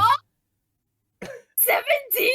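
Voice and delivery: high, loud disbelief; real shock. Real, not acted. Player reacts to a seventeen charm check, shocked. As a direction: blurt it out, aghast at the number.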